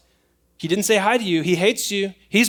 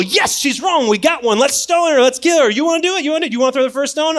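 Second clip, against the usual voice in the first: eager mob voice; 6 semitones higher, faster than usual. Acted. Mob urging each other to stone the woman, excited. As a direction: hype it up like a bloodthirsty crowd. Acting crowd ready to stone.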